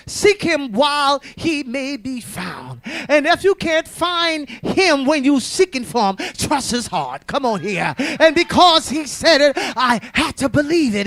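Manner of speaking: deliberate pulpit exhortation; testifying preacher driving the point home; emphatic preaching. Real, not acted. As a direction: preach it phrase by phrase, leaning on key words. Preaches on trusting God.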